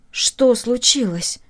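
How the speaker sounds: slow, steady, composed; calm question. Acted. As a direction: hold yourself together and ask calmly. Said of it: "таким спокойным голосом".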